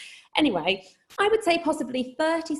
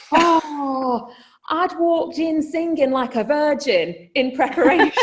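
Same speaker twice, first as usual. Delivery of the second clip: laughing; 6 semitones higher, 5 dB louder than usual. Real, not acted. Laughing at the memory.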